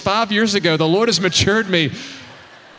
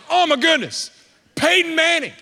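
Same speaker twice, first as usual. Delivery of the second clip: starstruck gush; 7 semitones higher than usual. Retold or imitated. Starstruck seeing Peyton Manning.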